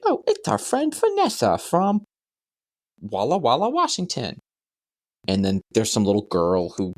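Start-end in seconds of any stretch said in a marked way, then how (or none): 0.0-4.4 high lisping puppet voice; Tiny Chef. Retold or imitated. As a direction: introduce a guest as a cartoony lisper. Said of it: "he has this horrendous voice".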